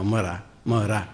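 slow, even repetition of "मरा" running into "राम"; measured syllables, "ma-ra-ma-ra" sliding into "rama"; repeated demonstration. Shown as a demonstration. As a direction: loop "मरा" steadily until it turns into "राम". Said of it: "इसलिए कहते हैं मरा कहो".

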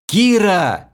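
high, loud yell of her name; high yell of a man being abandoned; desperate shout. A narrator's reading. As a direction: scream after her. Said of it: "крикнул я".

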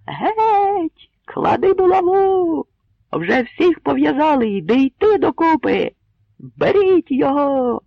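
loud, very high raging shouts; a mob baying for his mace; furious crowd roar. A narrator's reading. Enraged crowd demanding mace. (юрба вимагає булаву з люттю)

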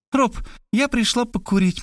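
put-on high, spoiled girl asking; capricious drawl. A narrator's reading. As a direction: drag out the request like a pouting girl. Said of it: "капризно протянула Варвара".

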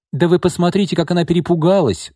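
high, gleeful exclamation; gloating. A narrator's reading. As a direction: crow over the other's fear. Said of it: "злорадно воскликнула Лина".

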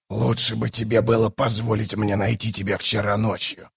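lightly voiced low, soft sorcerer; a hint of a grave shaman, hushed; reproachful bone caster. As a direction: reproach her quietly.

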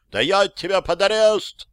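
high angry yell; гневный ор. A narrator's reading. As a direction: threaten arrest at full voice. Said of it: "орал в ответ он". (высокий гневный ор с угрозой)

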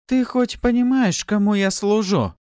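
very high, loud haughty demand; outraged challenge. A narrator's reading. Newcomer threatening Pafi with her master, outraged.

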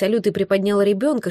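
usual speaking voice

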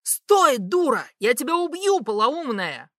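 loud furious yelling; angry shout. A narrator's reading. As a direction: shout after her in rage. Dar yelling after her.

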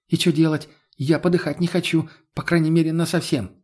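Lena's voice. Acted. Lena voiced, scared and crude.

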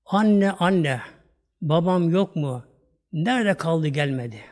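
yavaş, duygulu şiir okuyuşu; şiiri içli içli oku; duygulu şiir okuma. Acted. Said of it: "Şiir okuyayım ben de size". (vaiz dinleyicilere duygulu şiir okuyor)

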